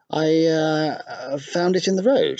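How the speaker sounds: put-on high, hesitant little girl telling a lie; a guilty child inventing an excuse to her father; fibbing girl. Meg lying to father.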